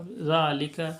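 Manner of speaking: "ज़ालिका" with a long held "ज़ा"; careful elongated "ज़ालिका"; drawn-out madd. Shown as a demonstration. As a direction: stretch the first vowel of "ज़ालिका". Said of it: "ध्यान से खींच के पढ़ेंगे".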